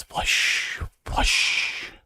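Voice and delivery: unvoiced, whooshing "flush"; imitated toilet flush. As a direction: say it like rushing toilet water. Imitating toilets flushing along tier.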